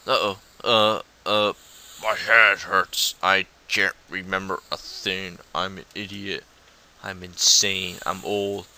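lightly voiced old man with an aching head; a hint of doddering, self-pitying old-timer; muddled old man. Voices old man feigning confusion.

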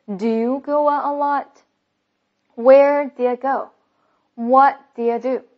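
lead-reading with "do you" merged into one beat; linked model reading. Shown as a demonstration. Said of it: "带大家带读一遍". (带读示范：do you 连读)

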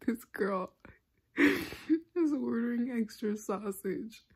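mock pizza guy, laughing through it; lightly voiced cook, cracking up; imitating the pizza maker. Imagining the cook judging her order, laughing. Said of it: "Being like".

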